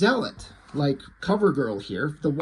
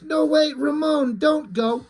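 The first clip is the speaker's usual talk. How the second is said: much higher mock plea; higher, pleading mock cry after a fleeing man; 9 semitones higher, slower than usual. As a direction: call after him, hammed-up. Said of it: "she's like".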